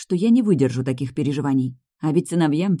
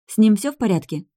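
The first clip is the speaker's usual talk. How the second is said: worried; 6 semitones higher, 4 dB louder than usual. Acted. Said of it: "Я в волнении схватилась за горло".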